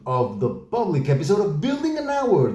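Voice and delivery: big bright host welcome; game show host. Acted. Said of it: "You sound like a game show host every time".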